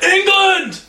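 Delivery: very high, loud imitated holler; shouted greeting. Texans spot their English friend on Bourbon Street, hollering. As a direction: yell it across the street.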